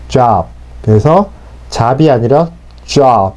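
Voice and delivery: job with lips pushed forward, slowly; rounded J. Shown as a demonstration. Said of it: "앞으로 입술을 내밀면서 발음하는 게". (입술을 내밀며 job)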